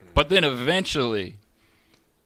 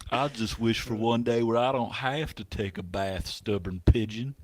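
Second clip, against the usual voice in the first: mopey pout pout fish; 4 dB quieter than usual. Retold or imitated. Fish complaining to the pigeon, soft sulky whine. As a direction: moan the wish to the pigeon. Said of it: "pout pout fish is gonna be like".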